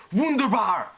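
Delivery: high, loud German exclamation of triumph; crowing. A narrator's reading. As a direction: crow it out in delight. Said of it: "Photo Finish crowed".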